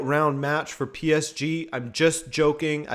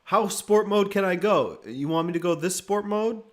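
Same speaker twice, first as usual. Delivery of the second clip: sport mode; 5 semitones higher than usual. Pretend. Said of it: "No sport mode this half".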